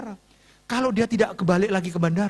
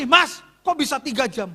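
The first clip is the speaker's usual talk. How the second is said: higher-pitched indignant demand; mock angry complaint; 6 semitones higher than usual. Pastor replaying complaint to protocol officer, indignant. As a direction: challenge the airline staffer, acting it out.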